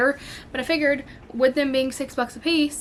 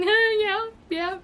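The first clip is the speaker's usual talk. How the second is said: sheepish admission; 10 semitones higher, slower than usual. Retold or imitated. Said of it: "And I was like".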